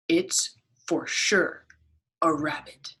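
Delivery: drawn-out, sure-of-itself rabbit; rabbit character. Acted. Teacher reading to kids as the rabbit, slow and firm.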